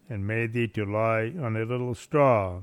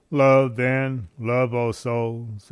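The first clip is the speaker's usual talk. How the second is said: louder, slow fervent cry; exclaimed; 5 dB louder, slower than usual. Acted. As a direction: call out to the souls, drawing it out slowly. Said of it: "exclaimed Saint Bernard".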